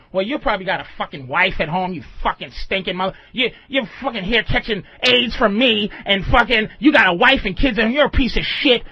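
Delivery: fast, rising mock tirade from a prostitute; mock angry rant. Prostitute snapping back at a customer, mock angry.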